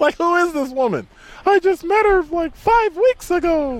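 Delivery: squeaky, very high, goofy, silly voice. Explaining why not to cry on a show, in a goofy 'dumb stuff' voice. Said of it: "that's my we do dumb stuff voice".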